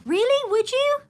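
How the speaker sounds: high, surprised questioning; pleasantly surprised. Real, not acted. Vlogger reacting to what viewers would like to see, surprised. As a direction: let your pitch leap up in surprise.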